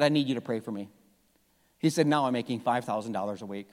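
low, soft and sheepish; hushed confession. Retold or imitated. A congregant quietly confessing his raise to the pastor. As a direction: confess it quietly, almost embarrassed. Congregant confides pay struggle.

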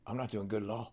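low, quiet and flat, barely there; glum low mumble. Retold or imitated. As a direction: mutter it like a beaten man. Stone Cold quoted, low and quiet.

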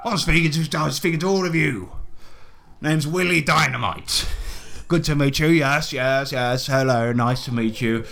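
lightly voiced sweary adventurer; hearty Willie Dynamite figure. Willie greeting the party, lightly voiced hearty host. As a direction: play a chummy, blustering host lightly.

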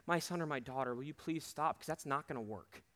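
lightly voiced loving father asking gently; gentle pleading Jesus. Jesus gently pleading with his child, softly. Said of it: "He's not mad at us".

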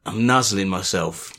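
low mock-sensual murmur; creepy sex talk. Host acting out nuzzling for supporters, mock creepy. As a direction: play a softly creepy come-on. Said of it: "This is the creepyometer raising".

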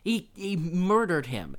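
high, loud schoolyard announcement; gleeful kid. Retold or imitated. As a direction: blurt out the news to classmates. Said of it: "he's like".

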